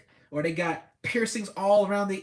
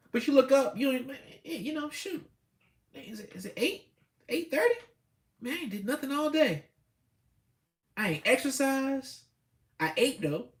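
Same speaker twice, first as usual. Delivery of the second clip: higher, flustered realization of the wasted day; mock panic; 6 semitones higher than usual. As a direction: play someone suddenly noticing the time. Procrastinator realizing day is gone.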